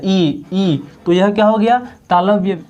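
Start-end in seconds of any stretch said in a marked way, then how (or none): 0.0-0.8 ई said from the palate, held; ई demonstrated. Shown as a demonstration. Teacher showing students how ई is said. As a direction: sound ई against the palate. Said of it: "ई तालु से बोला जा रहा है".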